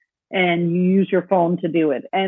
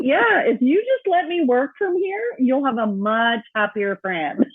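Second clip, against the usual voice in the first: teasing retort, high at first, slow and drawn out; retold playful bargaining; 4 semitones higher, slower than usual. Retelling her pitch to her boss to work from here, playfully bargaining. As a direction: start high and stretch it out cheekily.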